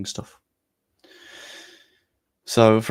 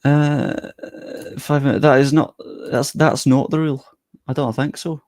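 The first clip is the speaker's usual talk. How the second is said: lightly put-on Scottish, higher and louder; Scottish accent; 4 semitones higher, 5 dB louder than usual. Streamer disputing the five-minute rule, in put-on Scottish. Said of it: "Back to the Scottish".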